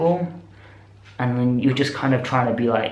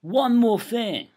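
bright high announcement; 5 semitones higher, 4 dB quieter than usual. Real, not acted. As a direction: drop into a cheery outro voice. Outro plug announcement.

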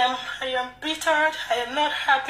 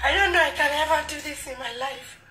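tearful, overwhelmed protest; upset and weepy; real crying. Real, not acted. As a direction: speak through real tears. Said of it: "heartbreaking to see her cry".

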